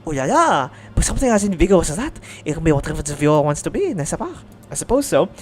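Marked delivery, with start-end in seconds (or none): 0.9-4.4 put-on a light French accent; gently musing in a French lilt. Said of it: "is she French?".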